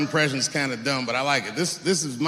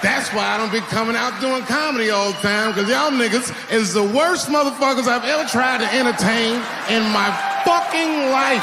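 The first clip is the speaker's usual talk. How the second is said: mock rant; 7 semitones higher than usual. Yelling at the audience.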